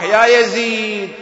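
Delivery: slow, drawn-out call to Yazid; calling out across the court, slowly. Retold or imitated. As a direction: stretch the "يا" out as a long call. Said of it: "صاح الإمام زين العابدين بأعلى صوت".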